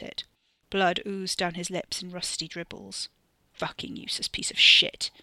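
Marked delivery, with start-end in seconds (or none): 3.5-5.1 harsh spitting whisper; spat whisper. A narrator's reading. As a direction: spit the words out in a hiss. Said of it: "the foreman spat on him".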